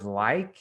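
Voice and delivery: "like" lifted with a rise; emphasize like; stress on like. Shown as a demonstration. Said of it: "you wanna really emphasize the word".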